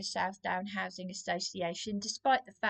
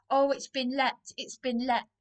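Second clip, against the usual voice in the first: higher, louder mock of a breezy remark; mocking Darren; 4 semitones higher, 5 dB louder than usual. Quoting her partner Darren to viewers: mocking imitation. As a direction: parrot his offhand words back, mocking.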